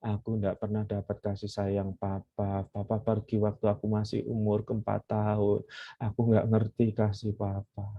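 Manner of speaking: daughter kneeling before her father, a touch of tearful sorrow; tearful plea. Retold or imitated. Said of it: "Perempuan itu nangis".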